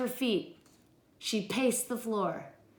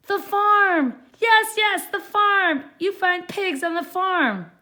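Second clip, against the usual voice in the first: much higher, loud eager witch; excited witch; 10 semitones higher, 8 dB louder than usual. Acted. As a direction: bounce with glee.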